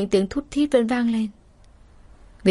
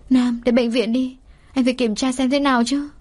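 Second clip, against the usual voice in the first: put-on pleading young woman; 4 semitones higher than usual. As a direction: beg him gently to see a doctor. Kiều Anh nài Nam đi viện. (giọng cô gái nài nỉ, cao hơn)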